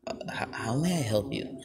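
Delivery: lightly acted deep-voiced kid; a hint of a put-on deep voice, hesitant start. Shown as a demonstration. Showing the five-year-old's voice to listeners, lightly deep voice. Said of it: "Basically that type of deep voice".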